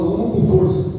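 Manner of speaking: put-on light Minas Gerais accent on "Eu amo com força"; mineiro accent. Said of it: "fala igual os mineiros". (sotaque mineiro leve)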